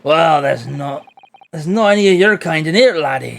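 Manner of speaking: put-on Scottish accent. Governor turns the Japanese lawyer away, Scottish accent. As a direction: brush the laddie off in a Scottish accent. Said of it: "how well can you do Scottish?".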